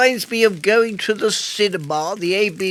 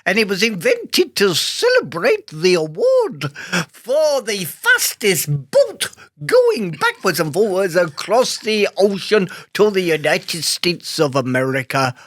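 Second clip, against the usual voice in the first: put-on drifting Scottish accent. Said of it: "what accent were you doing there?".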